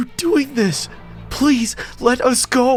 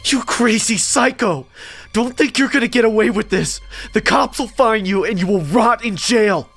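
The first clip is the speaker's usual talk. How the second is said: high-pitched outraged shout; frantic high, angry tirade; furious yelling; 13 semitones higher than usual. A narrator's reading. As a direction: yell threats at a captor. Victim furiously threatens the kidnapper.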